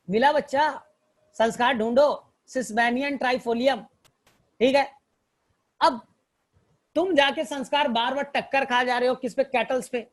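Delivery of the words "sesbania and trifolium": very slow, each word set apart; slow dictation. Shown as a demonstration. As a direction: let students write it down. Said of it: "teacher recalls mnemonic names".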